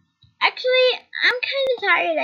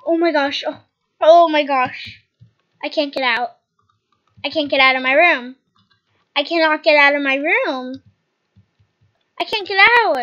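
panicked; 4 dB louder than usual. Acted. Trapped, panicking over hair.

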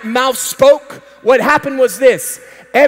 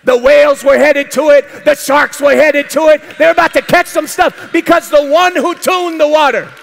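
rising preacher crescendo; preaching at full force. Real, not acted. Preacher building excitement to the congregation.

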